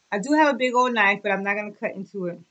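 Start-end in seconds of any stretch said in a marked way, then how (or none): none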